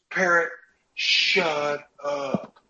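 fed up, tell the parrot off; fed-up yell. Retold or imitated. Handyman loses patience with the parrot, mock yell. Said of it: "he looks at the parrot and he goes".

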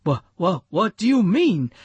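stammering, then rushing the question; nervous stammer. Acted. Rufus stammers nervously when asked about scratching. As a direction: trip over the start, then blurt it fast.

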